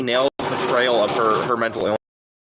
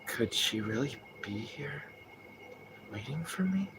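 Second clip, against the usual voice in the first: softer, slow, unsure question; imitating the original actor; 16 dB quieter than usual. Streamer imitating the original voice actor's James line, slow and soft. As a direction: murmur it slowly, wondering. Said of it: "'Cause his would be like".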